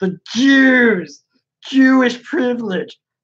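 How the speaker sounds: high ranting cry, one word stretched out long. Mocking a writer who keeps bringing it up: imitating E. Michael Jones ranting. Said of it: "He's like".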